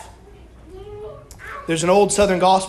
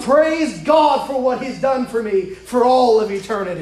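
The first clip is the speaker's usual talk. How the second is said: emphatic, higher-pitched sermon delivery; preaching; 4 semitones higher than usual. Real, not acted. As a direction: drive each point home to the congregation. Preaches building exhortation.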